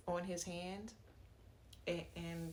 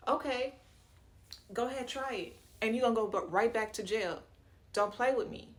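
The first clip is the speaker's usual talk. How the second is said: defiant; 3 semitones higher, 6 dB louder than usual. Real, not acted. Defying Ben's threat.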